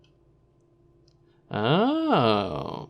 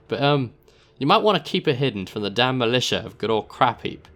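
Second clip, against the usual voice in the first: higher, louder put-on accent with laughs; warning dealer in a put-on accent; Narbo's rough accent; 4 semitones higher, 3 dB louder than usual. Narbo warning the player about the package, accented. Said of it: "I don't know what accent I'm doing".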